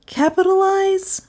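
high-pitched puzzled question; high, uncomprehending repeat; puzzled echo. A narrator's reading. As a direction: echo the word high, as a query. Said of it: "Melissa repeated".

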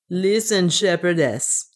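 a hint of accented dwarf, coaxing; lightly voiced dwarf servant. The dwarf puts in to the shepherdess, lightly accented voice. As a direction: lightly play the reassuring dwarf.

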